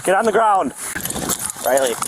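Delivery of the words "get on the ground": firm command. Real, not acted. Police ordering suspect down.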